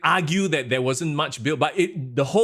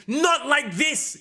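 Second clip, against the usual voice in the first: high, drawn-out mock commentator scream; slow, strained wail of disbelief, much higher; imitating a scream; 11 semitones higher, much slower than usual. Commentator screaming at a shocking finish. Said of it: "I can imagine Michael Cole screaming".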